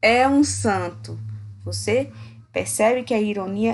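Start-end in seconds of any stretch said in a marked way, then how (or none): 0.0-1.2 slow, drawn-out "É um santo"; sarcastic emphasis on "um santo"; ironic. Shown as a demonstration. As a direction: stretch "santo" to mock it. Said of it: "ou eu dizer".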